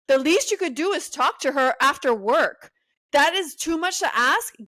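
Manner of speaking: exasperated rant. Real, not acted. Ranting at Jordan on screen.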